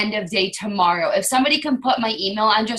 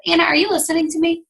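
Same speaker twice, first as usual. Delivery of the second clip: imitating Jasmine; 6 semitones higher, faster than usual. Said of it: "Jasmine's like".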